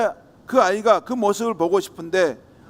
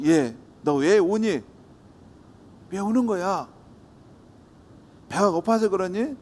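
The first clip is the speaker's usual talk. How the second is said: slow kind questioning. Acted. Passerby asks crying child.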